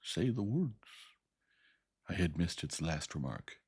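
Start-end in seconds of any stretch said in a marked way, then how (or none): 0.0-0.7 louder, higher beast voice; louder command. A narrator's reading. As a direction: demand the words sternly. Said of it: "repeated in a louder tone".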